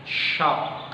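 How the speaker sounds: "Shock" with a crisp final k; model word shock. Shown as a demonstration. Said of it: "Pada kata shock". (contoh pelafalan "Shock")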